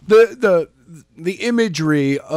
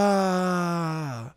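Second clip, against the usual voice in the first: mock scream; 2 semitones higher, 7 dB quieter than usual. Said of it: "screamed Jenna".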